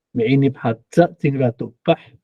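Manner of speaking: 哈扎 with the weight on 扎, rising; stress at the back. Shown as a demonstration. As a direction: stress the final syllable 扎 in 哈扎. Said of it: "如果重音在后的话".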